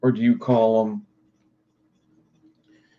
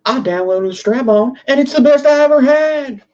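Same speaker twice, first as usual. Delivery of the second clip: much higher, louder nasal mock white-guy voice; Dave Chappelle white-guy voice; 13 semitones higher, 5 dB louder than usual. Streamer redoes the line for chat as a goofy white-guy impression. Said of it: "like a Dave Chappelle accent".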